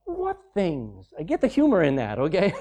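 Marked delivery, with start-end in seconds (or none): 0.1-1.1 soft, innocent feigned ignorance; innocent question. Acted. Jesus playing dumb with the grieving disciples, softly innocent. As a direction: ask it quietly as if you know nothing. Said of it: "and Jesus said to them".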